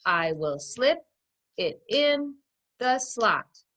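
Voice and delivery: slow, word by word in beats; pounded out. Shown as a demonstration. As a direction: knock out each word in rhythm. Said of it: "Let's pound it out".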